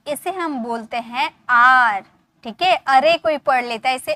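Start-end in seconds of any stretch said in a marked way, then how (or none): 1.5-2.0 English are, said आर like the letter R. Shown as a demonstration. Teacher telling students to say it आर, not अरे. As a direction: say आर as a single long ar sound. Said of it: "अरे नहीं पढ़ा जाता, इसे पढ़ा जाता है आर".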